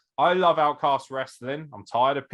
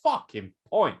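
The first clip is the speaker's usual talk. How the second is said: lightly voiced exasperated wrestler, pitched up; impatient heckler; 7 semitones higher than usual. Imagined roster members heckling the host, lightly exasperated. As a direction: plead high for the host to hurry up. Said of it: "I can hear Outcast members of the roster going".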